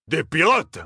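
high startled exclamation; alarmed cry. A narrator's reading. Captain Malia hearing of pirates, alarmed. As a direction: blurt it in alarm. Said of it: "s'écria Malia".

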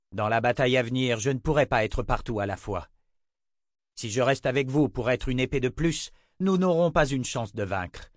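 voix de chef qui harangue ses troupes, haute; chef de guerre. Acted. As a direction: parle en meneur grave et résolu. Richard harangue ses soldats. (voix de chef qui s'adresse à ses troupes)

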